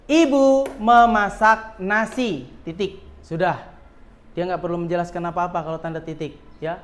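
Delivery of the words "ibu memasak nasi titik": put-on slow model sentence for children; slow example reading. Shown as a demonstration. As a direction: read "ibu memasak nasi" slowly and clearly, then say "titik".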